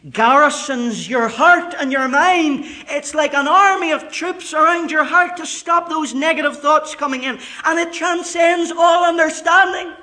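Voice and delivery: high, loud, ringing preacher voice; full-force pulpit delivery; fiery preaching. Acted. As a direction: preach it hard to the back row.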